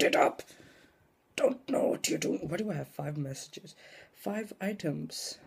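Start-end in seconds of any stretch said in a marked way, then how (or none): 4.1-5.4 slow robot monotone; flat robot reading. Real, not acted. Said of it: "Why do I sound like a robot".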